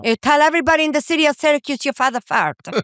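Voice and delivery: broken-English mother scolding through the door; scolding immigrant mother. Retold or imitated. Mother scolding her son for telling the fart story, mock-indignant. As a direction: play the mother refusing to open up.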